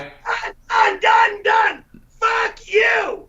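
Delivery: high shouted repeated refusal; angry shout. Real, not acted. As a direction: shout it and walk out. Quitting in anger.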